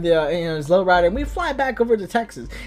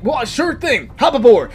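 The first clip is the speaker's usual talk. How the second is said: lightly voiced eager hero, lifting to a loud finish; a hint of hearty superhero; 3 semitones higher, 5 dB louder than usual. Hero agrees to a ride.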